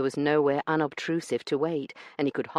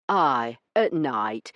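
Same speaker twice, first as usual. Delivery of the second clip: iron in his voice; 4 dB louder, much slower than usual. Acted. Branson insisting on night delivery, iron-hard. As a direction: lay it down as final. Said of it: "with more iron in his voice".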